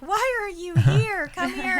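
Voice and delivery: tearful. Retold or imitated. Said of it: "I'm, like, crying, I'm bawling".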